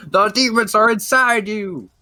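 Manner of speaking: high, loud proclamation of a priest; exorcising priest. Acted. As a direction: cry out like a priest casting out demons.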